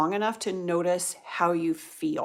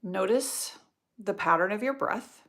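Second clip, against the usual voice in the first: guided meditation. Real, not acted. Yoga teacher guiding students through nostril breathing, meditative. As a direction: guide the breath gently, leaving space between phrases.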